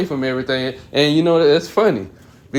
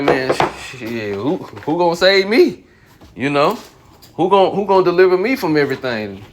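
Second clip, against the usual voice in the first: higher, pleading cry of a scared prophet; frightened prophet; 4 semitones higher than usual. Retold or imitated. A prophet afraid of the coming plagues cries out, pleading and frightened. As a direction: voice the prophet begging to be saved. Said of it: "He was so afraid from everything".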